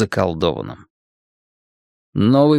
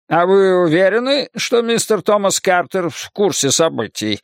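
higher-pitched stern questioning voice; 7 semitones higher than usual. A narrator's reading. Librarian questioning two boys about their story, stern. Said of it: "строго спросил он".

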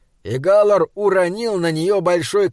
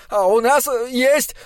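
excited; 9 semitones higher than usual. Acted. Desperate dwarf boasts while drowning.

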